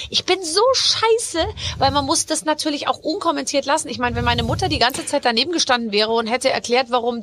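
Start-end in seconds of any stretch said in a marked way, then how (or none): 0.1-1.4 self-mocking. Real, not acted. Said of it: "Dann denk ich mir so".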